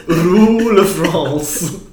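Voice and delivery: slow, high laughing repeat of Rue La France; drawn-out giggling French title. Real, not acted. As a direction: savour the title through a laugh.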